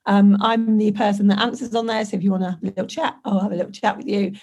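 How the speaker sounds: hoarse, croaky voice from covid; a real croak, like a frog. Real, not acted. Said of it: "I won't sound quite so like a croaky frog".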